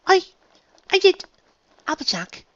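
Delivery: breathless, halting words; gasping for breath. A narrator's reading. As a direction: fight for air between the words. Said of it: "gasping for breath".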